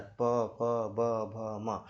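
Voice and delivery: प फ ब भ म said slowly from the lips; lip sounds. Shown as a demonstration. Teacher drilling students on lip consonants. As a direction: press the lips for प फ ब भ म. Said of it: "आप खुद उच्चारित करके देखो मेरे साथ".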